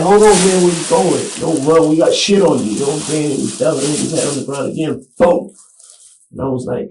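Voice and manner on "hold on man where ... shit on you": loud, higher retold yell at a running toddler. Father retelling yelling at toddler running off, loud. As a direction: call out sharply after the kid.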